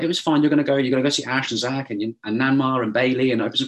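put-on high, sing-along mum talking a child round; imitated cheery reassurance.

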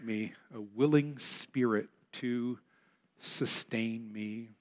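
a gentle psalm prayer, slowed and softening; prayerful plea. Acted. Reciting David's Psalm 51 prayer.

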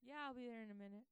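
casual brush-off. Retold or imitated. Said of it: "he goes".

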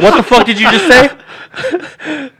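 high, loud, drawn-out disbelief; slow incredulous demand, acted out; retold shock. Reacting to the woman's HIV news, retold shock.

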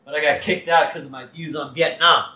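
quoting Homer. Retold or imitated. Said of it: "And Homer says".

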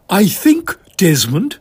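breathless whispered lady spy; Mavis voice. Acted. Mavis whispering to Desmond about the star. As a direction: hush it urgently, staring at the sky.

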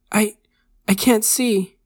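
high, loud, halting alarm; panicked stutter. A narrator's reading. Blinded kid tells his doctor, stuttering in alarm. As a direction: break off after the first word, then blurt it out high. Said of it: "he stuttered".

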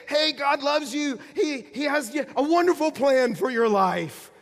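high, loud, slow feel-good pitch; mock upbeat preacher. Pastor mocking a feel-good sermon, loud and high. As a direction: sell it like a cheesy smiling preacher. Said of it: "Jonah doesn't say".

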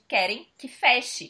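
very slow and spelled out; slow deliberate. Retold or imitated. Brazilian diner slowly repeating her mishearing. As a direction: drag the words out slowly. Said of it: "eu entendi".

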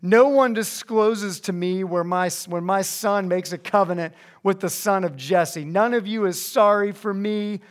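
mild mock self-pity; lightly acted whiny grievance; complaining. Preacher reads King Saul's pity party, mildly whining. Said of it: "He's complaining".

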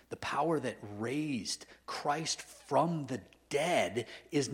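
loud, slow, ringing preacher's rebuke; fiery rebuke. Retold or imitated. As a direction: thunder it at him, slow and loud. Retold rebuke of sinful friend.

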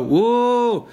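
drawn-out pretend wow; mock amazed whoa. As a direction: fake awe. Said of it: "you both to go".

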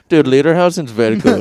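loud laid-back surfer dude; a hint of surfer dude. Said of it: "sounds like the German surfer".

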